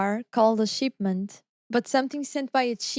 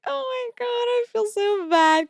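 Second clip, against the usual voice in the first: mock dismay; 12 semitones higher, 5 dB louder than usual. The speaker retelling her reaction to teammates, hammed-up dismay. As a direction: ham up the embarrassment. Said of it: "I was like".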